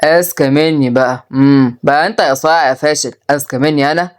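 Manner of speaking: low, measured taunt; menacing father. Acted. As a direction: throw the boast back at him. Father taunts boastful son.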